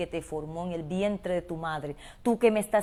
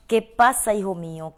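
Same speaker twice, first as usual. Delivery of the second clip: urgent call; 9 dB louder than usual. Acted. God crying out to the lost child, loud and urgent. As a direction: call it out with pleading force. Same call repeated much louder.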